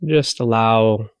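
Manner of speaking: unhurried body-scan guidance with long pauses; guided meditation. Acted. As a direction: ease them into relaxation, leaving long silences between phrases.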